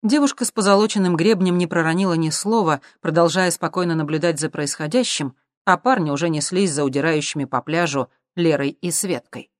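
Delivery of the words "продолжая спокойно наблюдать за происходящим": usual speaking voice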